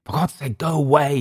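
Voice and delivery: high-pitched cry without full volume; shouted. A narrator's reading. Clift to the staring visitors, shouted. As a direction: plead at them to clear off, high. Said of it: "he shouted".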